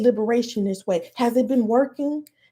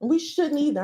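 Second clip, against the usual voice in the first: real rising anger, pitched up; indignant, higher than usual; getting mad; 4 semitones higher than usual. Real, not acted. Activist rejecting empathy for other races, getting mad. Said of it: "I'm getting mad".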